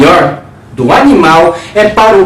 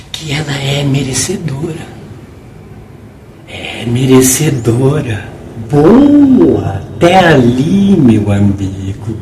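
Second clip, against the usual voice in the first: tender, paternal; 6 semitones lower, 4 dB quieter than usual. A narrator's reading. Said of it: "com a entonação terna, risonhamente paternal".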